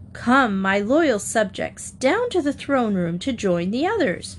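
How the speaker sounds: a touch of a regal queen; lightly grand royal summons; queenly voice. Acted. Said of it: "in her most queenly voice".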